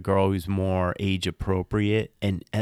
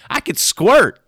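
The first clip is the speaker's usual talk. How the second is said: much higher, louder squealing mock brag; mock sexy voice; 11 dB louder than usual. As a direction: push the sexy brag over the top.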